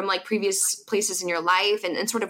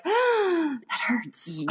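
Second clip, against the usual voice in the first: mock hurt; 9 semitones higher than usual. Acting wounded reaction to criticism.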